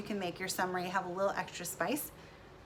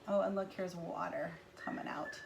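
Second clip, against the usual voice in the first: whisper; 5 dB quieter than usual. Real, not acted. Whispered aside while drawing.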